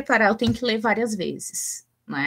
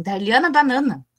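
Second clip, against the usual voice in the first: imitating the kids; 4 semitones higher, 5 dB louder than usual. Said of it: "Eles dizem".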